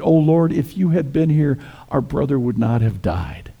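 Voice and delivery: mildly pleading lament, starting high; lightly acted lament, easing down in pitch; grieving reproach. Mary repeats her sister's words to Jesus, grieving reproach. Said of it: "she says exactly the same thing".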